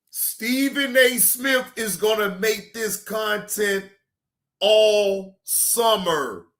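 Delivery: high, slow and gloating, stretching all summer; teasing drawn out. Real, not acted. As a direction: savour every word like a taunt. Repeats line, drawn out, teasing.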